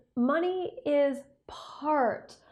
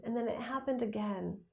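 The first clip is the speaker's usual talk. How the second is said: whispering; 6 dB quieter than usual. Real, not acted. Whispered repeat for emphasis.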